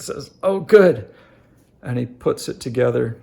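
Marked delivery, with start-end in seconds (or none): 0.4-1.1 put-on higher, louder delighted kid voice; imitating a delighted child; pleased kid. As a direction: play the kid's bright little win. Kid pleased about enough money.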